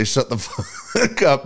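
slow, laughing through the words; laughing mock quote. Friend jokingly quotes the line, laughing slowly. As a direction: let the laugh break through the curse. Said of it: "if you were to say".

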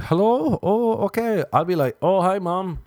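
high, loud chirpy hello; pretending a call came in; fake phone answer.

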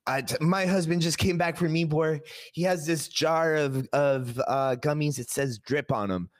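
high, upset wife voice; imitating a pissed-off wife on the phone; frantic angry wife. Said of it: "she's pissed. She's, like, frantic".

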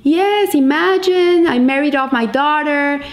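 high-pitched opening, lightly acted joy; very happy. Father telling friend of daughter's wedding, very happy. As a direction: gush a little over wonderful news. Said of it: "you look so happy".

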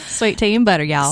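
Southern twang on "y'all"; playful Southern accent. Shown as a demonstration. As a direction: ham up the Southern vowels. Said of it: "I do get that accent".

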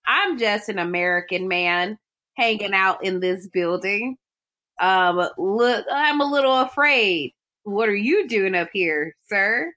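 put-on American accent; Gruber. Villain poses as American man trapped in building, put-on American accent. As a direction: imitate a villain faking an ordinary American accent. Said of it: "Gruber is trying his best to be an American man".

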